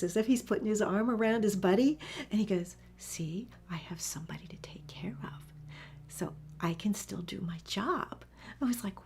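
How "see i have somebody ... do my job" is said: soft, low and protective; tender reassurance. Retold or imitated. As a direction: speak gently, proud of a buddy. Dog with arm around his buddy.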